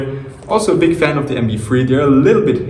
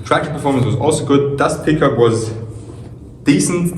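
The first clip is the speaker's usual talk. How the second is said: echoey locker room sound; recorded without a mic, roomy echo. Real, not acted. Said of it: "Please excuse the bad audio quality".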